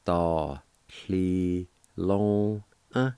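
"Da, li, lo, uh" with each syllable separated; "Da, li, lo, uh" slowly with pauses between syllables. Shown as a demonstration. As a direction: break it into syllables: "Da, li, lo, uh". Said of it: "pronounced like this".

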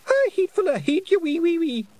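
put-on very high, loud child's shout; a little boy's angry outburst; small boy shouting. A narrator's reading. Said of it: "shouted Wentworth".

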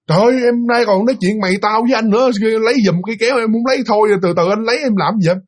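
indignant but not shouted; retold scolding. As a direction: imitate a husband telling off his wife. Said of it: "anh la em".

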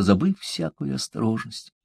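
usual speaking voice

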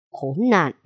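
Khốn nạn growled low through the teeth before the outburst; low growled curse. Acted. Father growls at the young man before exploding. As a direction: hold the anger in on Khốn nạn. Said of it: "gằn giọng đầy phẫn nộ".

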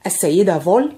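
a touch of surprise in the name; lightly surprised question; mildly taken aback. A narrator's reading. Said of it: "وقال في دهشة".

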